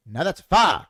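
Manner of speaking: loud punchline in a put-on comic drawl; "far" as a broad, one-syllable "fire"; Eddie Murphy. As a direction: belt out the stand-up catchphrase. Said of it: "Eddie Murphy's the best".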